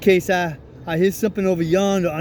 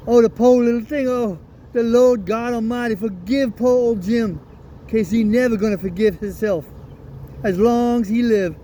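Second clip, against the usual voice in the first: a touch of weeping, higher and quicker; mild tearful lament, pleading to God; crying out; 3 semitones higher than usual. Retold or imitated. Father grieving over his deaf daughter, mildly tearful. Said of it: "I bust out a crying".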